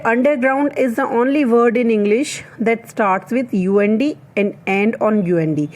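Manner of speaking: slow dictation. Shown as a demonstration. Reads English fact slowly.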